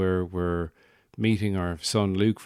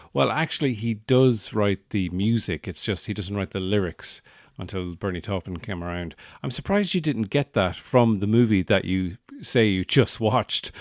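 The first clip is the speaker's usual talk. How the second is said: pedantic correction. Retold or imitated. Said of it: "stick my head out and go".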